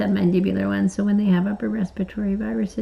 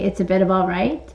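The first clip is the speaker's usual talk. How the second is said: mock British accent. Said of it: "you need to say it".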